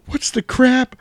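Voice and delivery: slow, very high and loud squawk; high, loud, drawn-out shocked yelp; startled squeal. Retold or imitated. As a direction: shriek it like a shocked cop. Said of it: "He goes".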